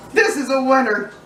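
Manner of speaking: talking with mouth full. Real, not acted. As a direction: speak through a mouthful. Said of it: "I'm talking with my mouth full".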